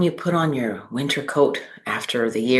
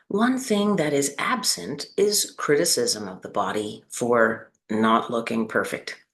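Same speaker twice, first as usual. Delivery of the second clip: unhurried guiding voice with long pauses between phrases; measured, spacious meditation delivery; guided meditation. Acted. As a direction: lead them gently through the body, leaving space after each phrase.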